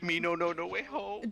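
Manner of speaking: high, loud broken-English orc; dumb orc voice. Acted. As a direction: play a dim-witted orc. Player voices dumb orc reply.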